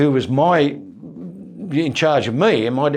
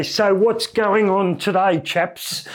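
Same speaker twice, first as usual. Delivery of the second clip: lightly raised silly mess-deck voice; a goofy character voice, slower; Chuka Dennis voice; 6 semitones higher, slower than usual. Retold or imitated. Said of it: "but I had the voice".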